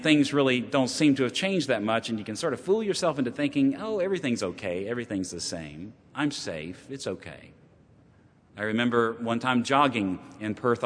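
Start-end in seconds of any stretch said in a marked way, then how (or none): 3.8-7.5 softer and softer, lower, lulled; fading into comfortable complacency; lulled self-talk. Retold or imitated. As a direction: complacent traveller reassuring himself, fading.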